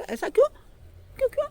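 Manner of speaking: high, rising protest; indignant why. Acted. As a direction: fake outrage, repeating why. Tenali protests the taking. (ऊँची नाराज़ हैरानी)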